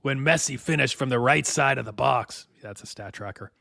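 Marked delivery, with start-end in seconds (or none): 0.0-2.5 thespian voice. Acted. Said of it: "my thespian voice".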